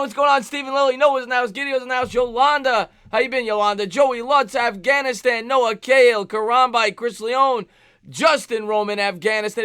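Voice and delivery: ordinary talk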